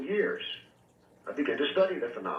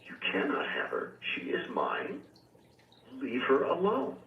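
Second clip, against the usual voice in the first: put-on refined British accent. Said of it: "this very refined British accent".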